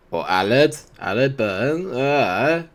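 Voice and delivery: lightly put-on Welsh accent on the name; a hint of a mock Welsh lilt; bad Welsh accent. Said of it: "It's just a terrible accent".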